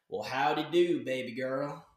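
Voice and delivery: mock Texan cowboy greeting; playful fake Texan accent; Texan drawl. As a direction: ham up a Texan howdy. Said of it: "I wanna look like I'm from Texas".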